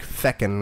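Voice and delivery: "feckin'" with an E for the U; "feckin'", first vowel as in "deck"; fucking with an E. Shown as a demonstration. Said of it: "You gotta say fucking with, uh, with an E".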